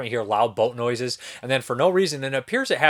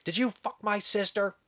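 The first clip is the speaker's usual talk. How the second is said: a touch of a nerd, higher and softer; lightly voiced nerdy guy; 8 semitones higher, 5 dB quieter than usual. Nerdy guy confronting someone about his sister, lightly mocked nerd voice. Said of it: "the nerdy guy's like".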